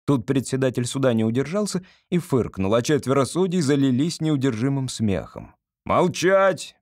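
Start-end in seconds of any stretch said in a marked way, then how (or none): 5.8-6.8 raised, high-pitched order; commanding. A narrator's reading. Presiding judge silencing laughing judges, commanding. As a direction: order silence with a sharp push. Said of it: "приказал председатель".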